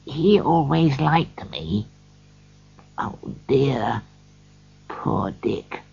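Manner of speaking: soft, slow, wistful recollection; quiet. A narrator's reading. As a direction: say it softly, with pity. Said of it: "said Scrooge quietly to the ghost".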